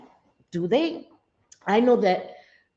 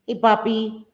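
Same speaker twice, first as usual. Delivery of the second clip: loving greeting; 2 semitones higher than usual. Shown as a demonstration. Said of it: "we say".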